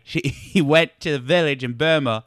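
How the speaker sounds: hammed-up Cockney storyteller; Michael Caine. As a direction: tell it in a mock British film-star accent. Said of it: "Your one accent is Michael Caine".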